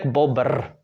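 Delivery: bobr with a rolled ending; pulled final R. Shown as a demonstration. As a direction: draw out the trill ending bobr. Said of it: "how long can you pull that R?".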